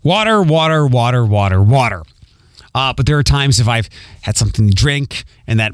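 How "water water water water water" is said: "water" repeated as WAH-ter, open vowel; practised non-Philly "water", over and over; standard pronunciation. Shown as a demonstration. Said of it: "I say water".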